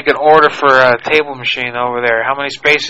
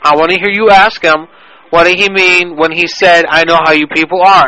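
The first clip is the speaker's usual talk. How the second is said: mildly indignant demand, pitched up; feigned indignation; 3 semitones higher than usual. Acted. Caller demands that the worker ask his colleague, feigned indignation. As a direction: insist with mock outrage, higher than usual.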